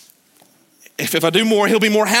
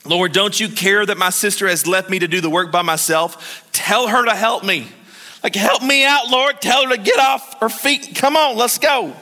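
whining Martha; 2 semitones higher than usual. Retold or imitated. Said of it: "you can almost hear her whining".

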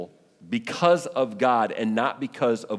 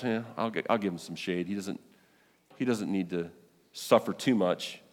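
much quieter, lower, as if relenting; soft, indulgent voice; 5 semitones lower, 6 dB quieter than usual. Acted. Preacher voicing God granting Jonah some shade, soft and indulgent. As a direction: murmur it low, like a patient father giving in.

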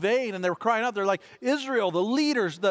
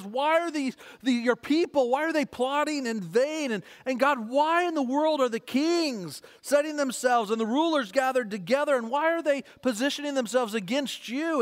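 mildly pleading, imitated prayer; crying out to God; 3 semitones higher than usual. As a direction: quote a psalmist's appeal with lifted pitch. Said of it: "David's crying out to God".

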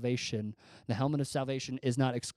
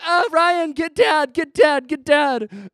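high, loud, frantic pleading; begging a brother to fetch help; retold child's panic, hammed up; panicking kid; 13 semitones higher, 12 dB louder, slower than usual. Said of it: "started freaking out and started panicking".

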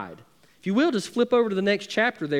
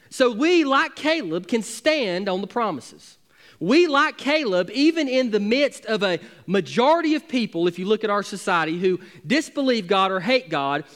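preaching at full force; 2 semitones higher than usual. Acted. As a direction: drive the promise home from the pulpit. Preaching climax.

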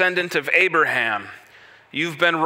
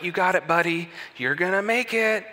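lightly voiced upbeat parent, a touch higher; cheering sports parent; 4 semitones higher than usual. Parent cheering on a kid whose team keeps losing, lightly upbeat. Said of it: "you're the parent that's just like".

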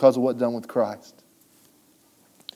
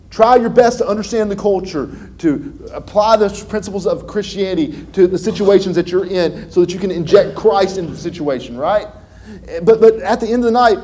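higher, louder preacher call; fiery preaching; 6 semitones higher, 4 dB louder than usual. Acted. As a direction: press the point on the crowd. Preaching at full force.

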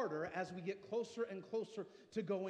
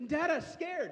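put-on higher, louder little boy's plea; scared child; 6 semitones higher, 8 dB louder, slower than usual. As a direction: mimic a frightened son running to dad. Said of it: "And he goes".

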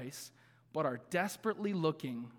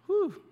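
sharp exhale; 13 semitones higher, 5 dB louder than usual. Real, not acted. Pastor steadying himself after emotion.

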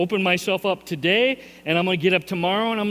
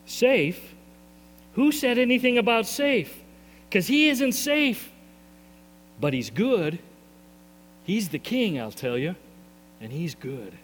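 mildly mock outrage, then hush; lightly voiced Mister Beaver, outraged then tender; Mister Beaver quote; 3 semitones higher than usual. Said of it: "here's what he said".

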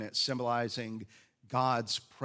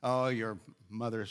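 mock French accent, hammed-up taunting; outrageous French accent. Jericho people jeering from the walls, in an outrageous French accent. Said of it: "audacious French accent".

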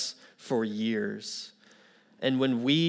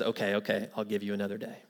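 quiet, resigned giving in; soft retold concession; relenting professor; 2 semitones lower, 7 dB quieter, much faster than usual. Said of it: "after some time of that, he says".

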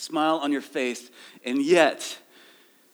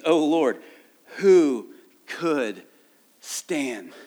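scripture reading; 4 dB louder, much slower than usual. Acted. Declaims the verse.

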